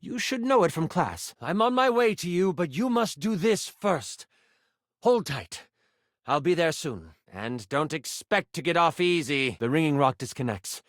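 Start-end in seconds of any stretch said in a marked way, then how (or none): 0.0-9.6 lightly voiced enchanter, firm instructions; stern mentor. Mentor gives apprentice the last step, lightly stern. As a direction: give final orders with a warning.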